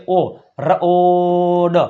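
slow letter-by-letter spelling; spelling out sounds. Shown as a demonstration. Teacher spelling out letters for the class. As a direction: sound out each letter slowly. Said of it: "શું આવશે?".

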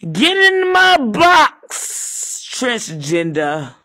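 long, high yell; stretched high shout. Acted. Yelling at the worker to get in the box.

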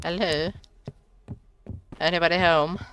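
soft, high, wary call; tentative calling out. Real, not acted. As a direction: call softly into a house that may not be empty. Calling into a dark house.

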